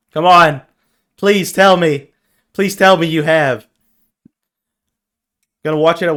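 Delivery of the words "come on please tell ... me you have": raised, insistent begging; pleading. Real, not acted. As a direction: plead eagerly for the answer you hope for. Begs viewer to have seen film.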